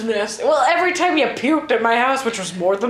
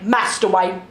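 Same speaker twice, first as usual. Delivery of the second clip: lightly mocked Cockney butler; whipped-out Cockney butler. Mocking Alfred to a friend, whipped-out Cockney. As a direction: whip the words out, mock Cockney. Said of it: "He just fucking whips words at you".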